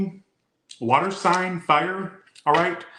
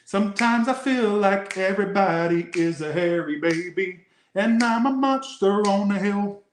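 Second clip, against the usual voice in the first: monster voice; 6 semitones higher than usual. Acted. Reading card message dramatically.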